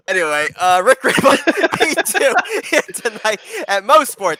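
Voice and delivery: loud, high hammed-up Australian accent. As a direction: ham up an Aussie announcer voice. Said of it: "Australian accents, everybody".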